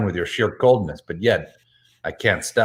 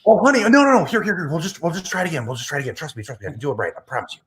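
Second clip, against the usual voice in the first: flustered; 6 semitones higher, much faster than usual. Acted. Frantic reassurance after pancake mishap.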